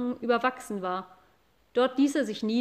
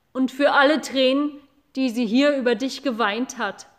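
loud accusing cow voice; an old cow listing his cruelties; furious cow; 6 dB louder than usual. Acted. Eldest cow accuses the boy, loud furious voice. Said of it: "am zornigsten".

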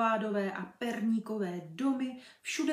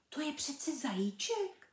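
whispered doll; 6 semitones higher than usual. Acted. Doll telling the ball, whispered. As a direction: whisper it kindly.

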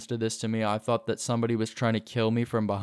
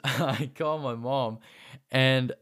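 laughing; 2 semitones higher, slower than usual. Real, not acted. Laughing while retelling the panic.

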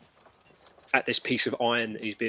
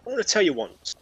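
shuddering goat man. Acted. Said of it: "he's like".

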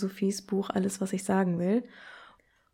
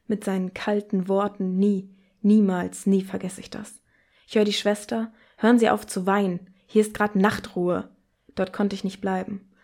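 poetry reading. Acted. Host reading the sixth text to listeners, grave and measured.

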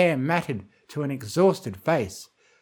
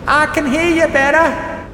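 high, loud eager call; filly calling up the well, thrilled; excited exclaim; 13 semitones higher, 9 dB louder than usual. A narrator's reading. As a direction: call it up with rising hope. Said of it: "Apple Bloom exclaimed".

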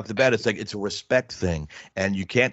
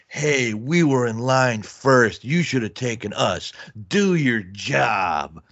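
1 mock stern father; 2 semitones higher, much slower than usual. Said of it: "just like my father would have said it".

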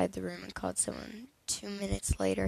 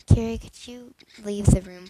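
loud call across the room; 12 dB louder than usual. Acted. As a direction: raise the voice to send him out. Teacher calls out to student.

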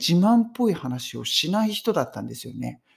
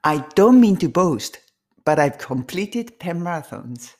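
a bit faster; 3 dB louder, much slower than usual. Shown as a demonstration. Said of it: "ちょっと早めに行きます".

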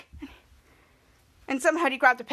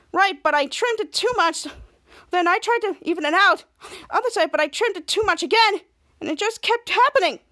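higher voice, mildly distressed account; upset explaining; 4 semitones higher than usual. Acted. Piper explaining her failed trim to Henry, upset. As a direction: pour out the mishap, climbing at the end. Girl recounts haircut disaster.

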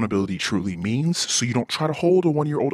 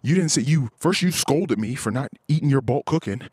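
higher, fast, mocking imitation of his wife; wife's justifications, hammed up higher and fast; 3 semitones higher than usual. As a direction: rattle off her excuses in a mock higher voice. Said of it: "She's like".

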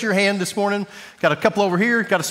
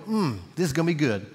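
low-key approving hum, softer and quick; imitated approving congregant; 3 semitones lower, 5 dB quieter, faster than usual. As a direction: lightly voice a congregant savoring it. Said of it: "I hear you out loud going".

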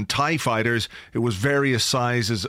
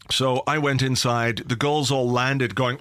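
ordinary talk, nothing marked

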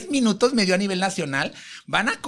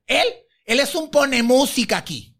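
belittling; 3 semitones higher than usual. Retold or imitated. Diva dismissing her own boyfriend's authority, belittling. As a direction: put him down, imitating the diva. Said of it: "se está diciendo al novio".

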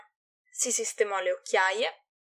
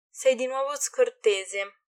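chirping; 3 semitones higher, 3 dB louder, slower than usual. Acted. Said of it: "cinguettò sua madre".

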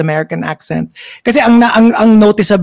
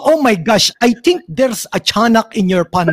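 mock Pinoy accent; 2 semitones higher than usual. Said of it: "English ang salita pero Pinoy accent".

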